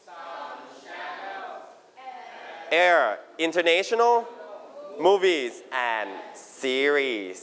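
each word stretched out slowly; slow choral repeat. Shown as a demonstration. Teacher leads the class in a slow repeat. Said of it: "repeat after me".

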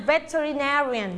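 "veterinarian", stressed on the syllable "na"; slow teacher's model of "veterinarian", weight on "na". Shown as a demonstration. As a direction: lean into "na" in "veterinarian". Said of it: "เป็นการเน้นเสียง".

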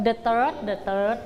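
the third said very slowly and clearly; slow model reading. Shown as a demonstration. Teacher drilling the third for pupils. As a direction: stretch the third out word by word. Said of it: "เราจะเรียกว่า third".

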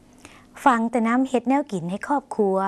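slow, clear Lao model sentence ฟังแต่น้ำเฮ็ดแนวกินให้ครอบครัว; slow Lao demo. Shown as a demonstration. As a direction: read it slowly for learners to copy. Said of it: "ลองออกเสียงภาษาลาว". (อ่านช้าๆ ชัดๆ ให้ผู้ชมพูดตาม)

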